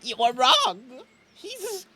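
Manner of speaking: high-pitched crying protest, building to a drawn-out wail; tearful denial. Acted. Chet denies his friend Graham is dead, crying and wailing. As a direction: wail it through tears, refusing to accept the loss. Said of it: "wiping away".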